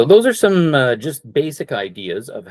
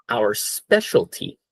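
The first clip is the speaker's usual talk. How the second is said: slow model phrase; slower than usual. Shown as a demonstration. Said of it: "Number two here".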